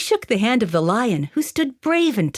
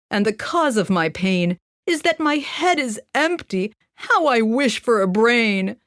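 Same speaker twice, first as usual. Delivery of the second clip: sad scarecrow. Acted. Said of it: "I'm sad, said the scarecrow".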